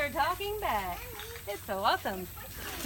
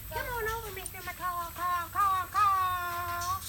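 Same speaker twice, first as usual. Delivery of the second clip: lilting higher call to a bird; coaxing a wild bird; 5 semitones higher than usual. Real, not acted. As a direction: coax the parrot over gently. Calling the macaw over.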